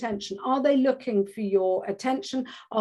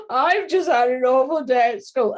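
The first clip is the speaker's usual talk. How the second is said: put-on mild tearful child; 3 semitones higher, 5 dB louder than usual. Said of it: "burst into tears".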